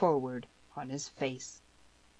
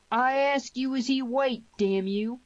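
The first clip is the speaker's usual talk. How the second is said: high, loud insistence; angry demand; 9 semitones higher, 5 dB louder, slower than usual. Acted. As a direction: demand it again, louder and fiercer. Fighter demands an answer from Grady.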